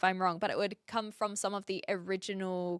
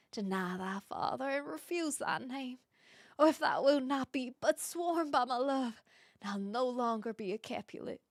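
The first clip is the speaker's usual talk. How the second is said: attempted Southern belle accent, lightly done; 4 dB quieter than usual. Shown as a demonstration. Streamer demonstrating Shakespeare's balcony scene, shaky-handed attempt at Southern accent. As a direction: try Juliet with a hint of Southern accent. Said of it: "I can't do it in a Southern accent".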